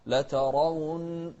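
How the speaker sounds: لترون with a full, heavy ra. Shown as a demonstration. Teacher shows the heavy ra in لترون. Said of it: "ونفخم الراء".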